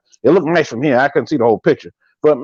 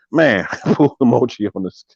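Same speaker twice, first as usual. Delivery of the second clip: talking through laughter; real laughing; 6 semitones lower than usual. Real, not acted. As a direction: crack up while getting the words out. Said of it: "Man, I'm laughing".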